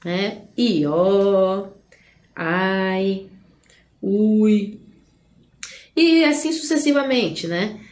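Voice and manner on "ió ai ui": each vowel pair in "Ió, ai, ui" held as one long glide; drawn-out diphthongs. Shown as a demonstration. Teacher giving examples of diphthongs, "Ió, ai, ui" drawn out. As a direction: stretch "Ió", "ai" and "ui", pausing after each. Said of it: "Ditongo é a união de duas".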